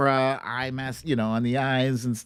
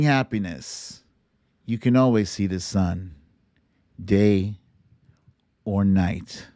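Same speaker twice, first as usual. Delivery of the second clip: reciting a singer's lyrics. Retold or imitated. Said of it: "one of my favorite songs ever".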